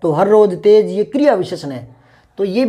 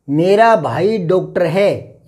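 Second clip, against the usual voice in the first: slow and clear; much slower than usual. Shown as a demonstration. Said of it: "यही सही माना जाएगा".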